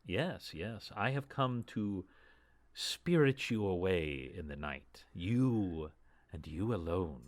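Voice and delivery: 1 formal elf lady. Acted. GM voices the elf druid's formal speech.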